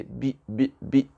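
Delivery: "bi" with a very short, lax vowel. Shown as a demonstration. Teacher correcting a long French i, short vowel. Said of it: "le E va être vraiment court".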